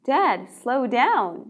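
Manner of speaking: slow "Dad, slow down" with "Dad" stressed; a mildly scared child asking dad to slow; slow child plea. Shown as a demonstration. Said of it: "겁에 질린 우리 아가는". (겁먹은 아이처럼 살짝, 천천히)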